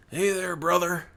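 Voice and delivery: lightly voiced redneck drawling a greeting; a hint of wrestler in the voice; Hulk Hogan. Redneck greeting a store worker, light Hogan-style voice. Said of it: "sounds like his voice is like Hulk Hogan".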